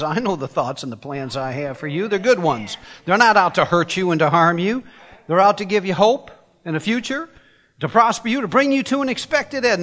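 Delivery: scripture read with mounting fervour; rising scripture quote. Acted. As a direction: build the promise up to a ringing end. Preacher quoting scripture, rising.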